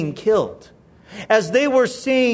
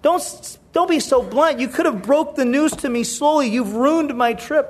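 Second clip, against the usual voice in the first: higher-pitched voice of an upset wife; mild scolding wife; 5 semitones higher than usual. Retold or imitated. Wife scolding her husband for blunt news, mildly upset. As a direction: lightly act out an aggrieved complaint.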